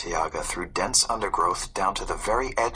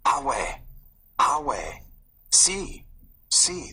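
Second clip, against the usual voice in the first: put-on boy whispering; 5 semitones higher, much slower than usual. A narrator's reading. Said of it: "the boy whispered".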